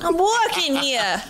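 mock New York accent; broad New York tough guy. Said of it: "That might have been more Boston".

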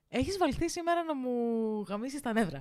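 fed-up complaint trailing off softly; exasperated. Real, not acted. Complaining to her cohost, exasperated and quiet. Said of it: "γιατί έχω νεύρα".

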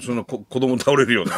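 real laughing shout over the joke. Real, not acted. Co-host shouts laughing at the idea of a deafening cheer. Joking alarm at the loud cheer.

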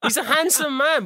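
giggling through the words, pitched high; laughing. Real, not acted. Cohost laughing about looking like a footballer, giggly and high. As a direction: laugh at your own joke as you say it. Laughing at his own lookalike.

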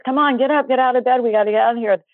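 retold yelling. Mother rousing the kids from bed in a house fire, retold yell. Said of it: "I'm yelling at the kids".

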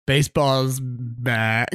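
slow, deadpan "Baseball's back"; drawn-out announcement. Retold or imitated. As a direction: drag it out flatly. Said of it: "I'm like".

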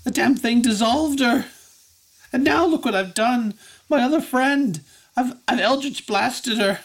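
high, distraught wailing story; very upset Effie. Acted. Effie confesses she blasted her friend, high upset voice. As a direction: pour out your grief in a high girlish whine. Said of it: "She's very upset".

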